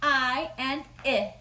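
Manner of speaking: "I" drawn out slowly as short i; slow short I sound. Shown as a demonstration. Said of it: "Can you guys say that with me?".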